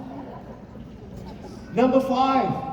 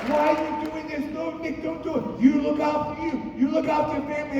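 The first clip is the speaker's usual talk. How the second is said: raised, pleading parents' voice, a little higher; parents pleading; 4 semitones higher, much faster than usual. Retold or imitated. Parents begging their son not to do it, raised pleading voice. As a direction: call out like worried parents begging him to stop.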